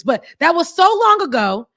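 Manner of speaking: a hint of French accent, high and mocking. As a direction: tease them in a hammed-up French accent. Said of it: "They American Frenchy accents".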